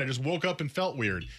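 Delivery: lightly acted brush-off, statement falling at the end; mock excuse. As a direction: imitate a player playing it down. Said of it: "And he goes".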